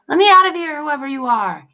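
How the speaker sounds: very high, loud trapped-demon cry. A narrator's reading. Demon shouting from knapsack to be let out. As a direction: yell it from inside the sack. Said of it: "the demon cried".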